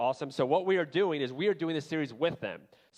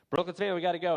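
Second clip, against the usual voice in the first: retold yelling; 5 semitones higher, much faster than usual. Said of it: "I just keep yelling up there".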